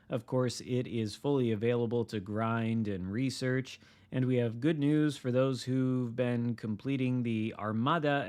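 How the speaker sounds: upbeat announcer read; news read. Acted. Reading patch notes aloud.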